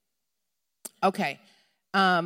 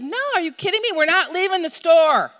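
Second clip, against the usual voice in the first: high, loud, emphatic declaration; adamant refusal; 6 semitones higher, 5 dB louder than usual. Acted. Preacher urges believers not to give up, adamant outcry. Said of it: "something in us to be like".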